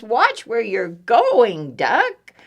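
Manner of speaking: high, slow hen warning; scolding chicken. Acted. Chicken warns passing duck, high scolding.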